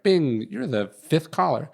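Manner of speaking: slow, sing-song mock of a conference line chime; lightly imitating the phone system announcer; automated call voice. Telling a friend how the call line announced him, slow mock robot voice. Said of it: "you get on a conference call and it's like".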